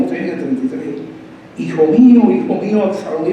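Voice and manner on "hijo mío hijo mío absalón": lamenting shout, raised at first then falling; a measured grieving cry; mock crying out. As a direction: act out a father calling for his son. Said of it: "Iba gritando".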